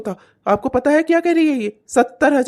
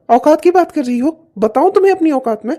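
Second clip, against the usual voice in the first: louder, rising threat; angry; 4 semitones higher, 4 dB louder than usual. Acted. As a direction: dare her to go on. Husband threatens wife. (पत्नी को गुस्से में धमकी)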